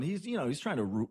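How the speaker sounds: ordinary talk, nothing marked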